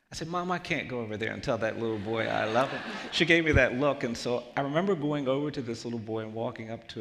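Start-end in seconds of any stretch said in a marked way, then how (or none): 0.3-2.8 louder mock-indignant objection; boyish protest. Boy refusing mom's order, protesting. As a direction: push back as an embarrassed boy would.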